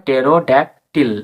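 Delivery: টেরো ড্যাক টিল in separate parts, "te-ro dæk til"; pronunciation demo. Shown as a demonstration. Teacher reads the full pronunciation, measured টেরো ড্যাক টিল. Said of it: "উচ্চারণটা পড়ে হবে".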